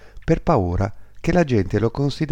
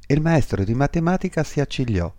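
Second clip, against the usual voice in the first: ordinary delivery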